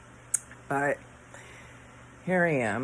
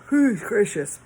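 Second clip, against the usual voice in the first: words pulled out of shape by a yawn; talking through the end of a yawn; 7 semitones higher, 7 dB louder than usual. Real, not acted. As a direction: mutter it as the yawn fades. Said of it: "I'm yawning".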